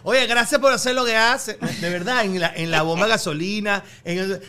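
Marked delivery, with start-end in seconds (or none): 0.0-1.6 loud, higher imitation of earnest thanks; acted heartfelt thanks, pitched up; mock patriotic gratitude. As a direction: imitate a fan thanking a national hero. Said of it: "como que si yo estoy defendiendo la patria".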